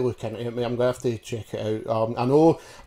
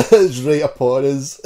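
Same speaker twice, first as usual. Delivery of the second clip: slow, loud laughing complaint; 7 dB louder, slower than usual. Real, not acted. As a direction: laugh as you say it. Laughing about the busy week.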